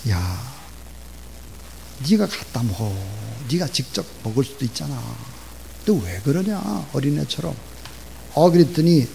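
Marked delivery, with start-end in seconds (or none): 0.1-7.5 mildly annoyed father's scolding; irritated. Acted. Dad refuses child's repeated water request, mildly irritated. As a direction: act out weary annoyance with a pestering child. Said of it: "짜증이 나는 목소리로 이렇게 했어요".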